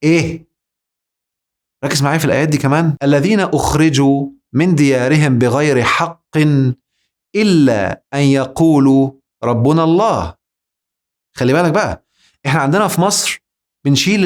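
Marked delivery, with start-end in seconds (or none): 3.0-10.4 slow, measured Quranic recitation. Shown as a demonstration. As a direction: recite the verse with care. Recites a verse slowly. (تلاوة بطيئة)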